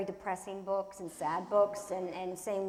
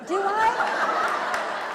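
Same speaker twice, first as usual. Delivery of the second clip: surprised; 13 semitones higher, 10 dB louder than usual. Real, not acted. Teasing reply to dad's question.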